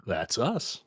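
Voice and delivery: cheery reply with a smile; lightly acted cheerful greeting. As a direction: answer brightly, as if pleased to be found. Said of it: "says with a cheery smile".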